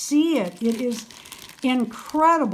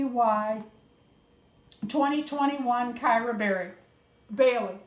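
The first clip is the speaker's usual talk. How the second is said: softer, even read-aloud voice; reading a letter aloud; 2 semitones higher, 5 dB quieter than usual. Real, not acted. Vlogger reads gift senders' note to viewers, softly read aloud.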